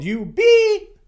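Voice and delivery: sudden high shout breaking into a laugh; mock teenage outburst, half laughing; retold yell. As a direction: yell it like an angry teen, then crack up. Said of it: "and yelled".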